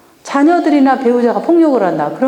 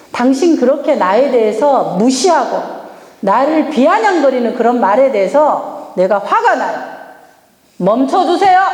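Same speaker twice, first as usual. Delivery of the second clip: firm demo. Shown as a demonstration. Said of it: "단호하게 얘기하는 거예요".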